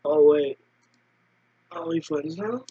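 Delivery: stoner voice. Acted. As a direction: talk like a chill stoner. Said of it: "You sound like a stoner".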